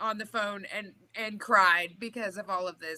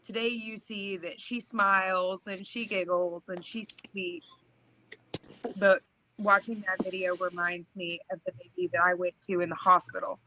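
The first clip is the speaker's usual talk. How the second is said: snotty crying; 4 semitones lower than usual. Real, not acted. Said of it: "I'm crying just 'cause you're crying".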